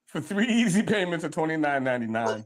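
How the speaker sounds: smooth low sales pitch price; home shopping host. Pretend. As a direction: read the price like an infomercial. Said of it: "First of all, it's three easy".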